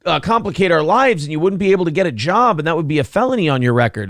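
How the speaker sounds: hammed-up girlfriend talking her man down; mock girlfriend voice. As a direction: beg him sweetly to back off like a worried girlfriend. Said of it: "good accent".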